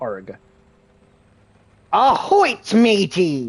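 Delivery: sing-song, swooping put-on cartoon pirate voice. Doing a quick pirate bit while playing: pirate voice. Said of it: "I gotta add a G in this pirate".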